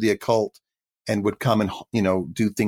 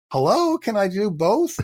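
mock protest; 10 semitones higher than usual. Retold plea against being typecast.

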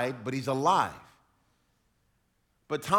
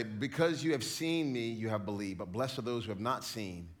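lightly voiced gentle Jesus; Jesus teaching; 9 semitones lower, 10 dB quieter than usual. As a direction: lower and much softer. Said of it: "Jesus goes on to say".

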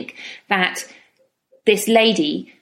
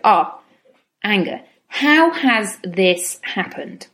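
calm curious noticing; slower than usual. Shown as a demonstration. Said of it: "What you want to do is go".

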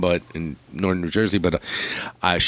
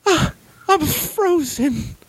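much higher, slow frightened mother; a mom too scared to move; much slower than usual. Retold or imitated. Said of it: "I'm like".

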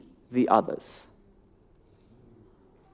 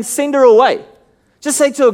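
impatient dismissal; 5 semitones higher, 4 dB louder than usual. Retold or imitated. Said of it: "He's just saying".

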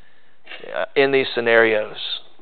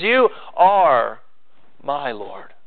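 confident claim; much slower than usual. Shown as a demonstration. Preacher showing David's assured prayer, confident. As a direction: state it with sure conviction. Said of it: "He says".

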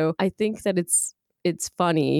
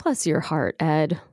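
pitying friend. Acted. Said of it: "this is sympathy expressed".

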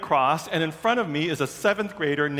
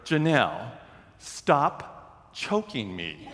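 imitating speech through a squeezed throat; low, slow words forced out while being choked; 4 semitones lower, slower than usual. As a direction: act out being strangled, struggling to speak. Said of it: "I can't breathe".

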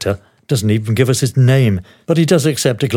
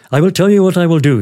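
higher-pitched smiling offer; 7 semitones higher, faster than usual. A narrator's reading. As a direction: announce it with a smile, pitched up. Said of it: "smiling now".

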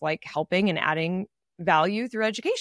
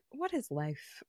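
stunned disbelief; 12 dB quieter, slower than usual. Retold or imitated. Stunned hearing a singer's side talk.

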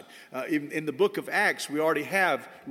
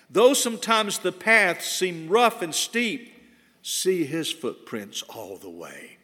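reciting a hymn verse; slower than usual. Shown as a demonstration. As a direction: read the hymn verse slowly, then let it sink to near silence. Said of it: "Listen to one of the verses".

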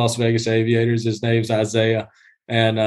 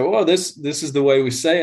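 imitating the groundskeeper's Iowa accent, higher; an exaggerated Iowa accent, voiced higher; 5 semitones higher than usual. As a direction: play the Iowa guy explaining his own speech. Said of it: "he's like".

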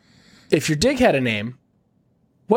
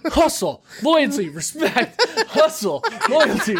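higher, drawn-out chant of the slogan; mock John Cena yell; 10 semitones higher, slower than usual. Friend asks if his dick yells the slogan, mock chant. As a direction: chant it like a hyped wrestler. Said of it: "does your dick just yell".

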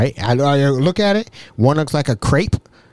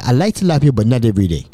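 measured, lightly imitated African accent; touch of a formal African voice; 2 semitones lower, much faster than usual. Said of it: "Mbutu was an African".

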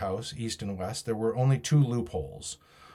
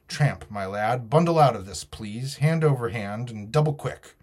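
firm captain's ultimatum, slightly raised; defiant captain; 3 semitones higher, 3 dB louder than usual. Acted. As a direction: lightly play a stern officer dismissing an enemy.

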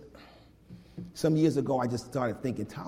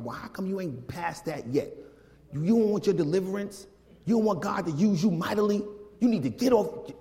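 impatient scolding; 4 semitones higher than usual. Retold or imitated. Older saint scolding a struggling new believer, judgemental. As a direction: lecture them like a fed-up church elder.

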